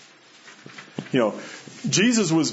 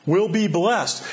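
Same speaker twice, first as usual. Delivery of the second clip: firm, raised stress through "will be blessed"; emphatic; 3 semitones higher than usual. Retold or imitated. Preacher stressing God's personal promise, emphatic "will be blessed". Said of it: "It's emphatic".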